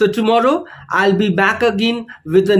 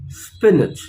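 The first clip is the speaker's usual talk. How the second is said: spinach with SPIN stressed, falling; teacher models first-syllable stress in spinach. Shown as a demonstration. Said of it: "the stress is on the first syllable".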